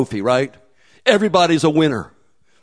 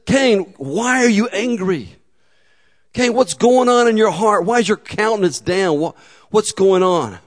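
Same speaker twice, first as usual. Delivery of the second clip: gentle pleading; 4 semitones higher than usual. Acted. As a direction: ask like a father wanting to know. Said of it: "And he says".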